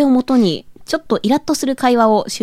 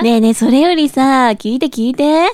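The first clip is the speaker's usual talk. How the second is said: japanese gyaru slang; 3 dB louder than usual. Acted. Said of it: "ギャルっぽく無理があるよね".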